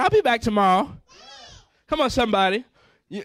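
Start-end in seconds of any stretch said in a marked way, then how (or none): 0.0-0.9 shouted vow. Acted. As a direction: call it out so the back row hears. Vows to return to God.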